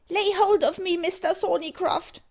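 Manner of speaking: high, loud dwarf scream for help. A narrator's reading. Old Parr is dragged upwards, screaming for Thorneycroft. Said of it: "screamed Old Parr".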